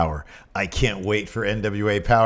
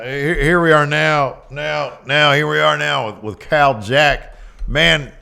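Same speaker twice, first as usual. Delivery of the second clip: a hint of a higher Southern ringside announcer; J R impression; 3 semitones higher than usual. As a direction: interview the big fella like J R. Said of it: "Here, you do J R".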